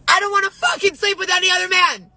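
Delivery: outraged cry. Real, not acted. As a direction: burst out, high and raw. Furious rant about being pressured.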